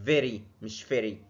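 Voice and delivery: very with v, then wrong with f; slow very against a faulty f; slow contrast demo. Shown as a demonstration. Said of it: "والتانية very".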